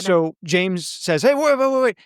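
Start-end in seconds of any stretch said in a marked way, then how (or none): 1.2-2.0 higher, hurried retold plea to wait; urgent plea. James pleads with Paul, who has him cornered, urgent plea. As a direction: act out a mild urgent plea to hold on.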